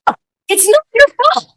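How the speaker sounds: high, overwrought mock apology; hysterical self-blame. Customer taking the blame from the waiter, overwrought. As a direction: act out a meltdown of sarcastic self-blame.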